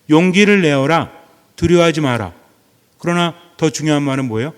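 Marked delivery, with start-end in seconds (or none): 0.1-2.3 emphatic command. Shown as a demonstration. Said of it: "이 세 마디가 얼마나 중요한지 몰라요".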